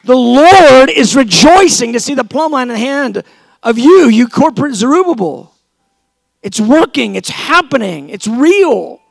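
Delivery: hammed-up preaching at full force, loud and high; mock preacher shout. Shouting over the leaders to lift their spirits, loud and high. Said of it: "I'm going".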